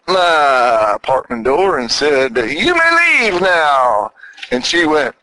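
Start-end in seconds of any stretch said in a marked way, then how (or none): 2.4-4.1 slow, measured and final; firm dismissal. Retold or imitated. To the girlfriend demanding a degree, a slow firm dismissal. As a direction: show her the door, calmly.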